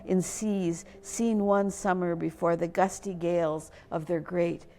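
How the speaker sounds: measured poetry reading with weighted phrases and pauses; poem recitation. Acted. Poet laureate reads her climate lament to an audience, solemn poem recitation. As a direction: recite it line by line, letting key words land.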